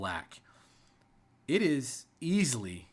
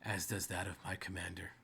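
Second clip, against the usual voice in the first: understated, impatient commanding rider; hushed menace, spaced out with long pauses; weary-patience rider; 3 semitones lower, 4 dB quieter than usual. Acted. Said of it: "My patience grows weary".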